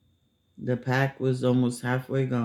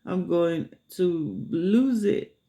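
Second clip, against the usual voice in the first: higher, slow, drawn-out mock exasperation; retold exasperation; 6 semitones higher, slower than usual. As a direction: stretch it out like she's at the end of her rope. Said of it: "she's like".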